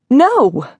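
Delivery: high, alarmed refusal; frightened cry. A narrator's reading. Woman refusing to hear the caller's vision, frightened.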